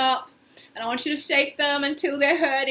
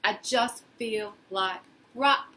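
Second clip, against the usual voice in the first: despairing. Shown as a demonstration. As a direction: let it sink, tired and defeated. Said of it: "Get really into that with the body".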